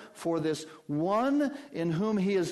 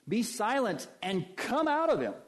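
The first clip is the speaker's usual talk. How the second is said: commanding; 7 semitones higher, 3 dB louder than usual. Acted. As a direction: order the demon out. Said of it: "He commands him".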